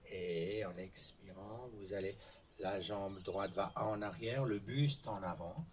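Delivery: slow, soft breathing-class instruction; soft, measured pacing with room to breathe; guided movement. Real, not acted. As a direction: lead them gently through an unhurried movement.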